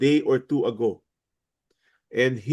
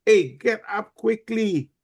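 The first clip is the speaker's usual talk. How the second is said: a raised, pitched-up mock "hey, get up"; urgent wake-up; 7 semitones higher than usual. Pastor acting out waking a sleeper, mild mock shout. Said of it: "shake the person and say".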